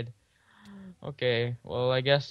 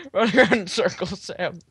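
panicked; 10 semitones higher than usual. Real, not acted. Stuck, panicking in game.

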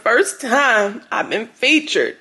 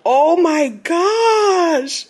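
slow, drawn-out whine; long wailed disbelief; mortified wail; 3 semitones higher, much slower than usual. Real, not acted. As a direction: stretch it into a mock-crying groan. Mortified by the article.

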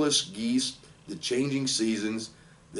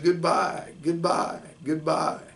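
high little farewell cries; tiny voices calling; 6 semitones higher, slower than usual. Acted. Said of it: "Cries of".

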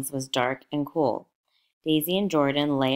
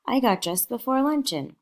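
a lightly voiced child, much higher; eager small girl, pitched up; little girl; 9 semitones higher than usual. A narrator's reading. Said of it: "said the child".

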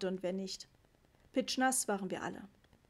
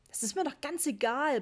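shouted; 5 semitones higher, 3 dB louder than usual. A narrator's reading. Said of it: "brüllte ich".

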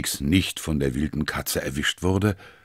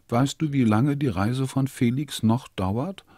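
lightly voiced child, pitched higher; a small girl's worried question; little girl asking; 9 semitones higher than usual. A narrator's reading. Sophie asks grandma about Felix's trip, lightly voiced higher child.

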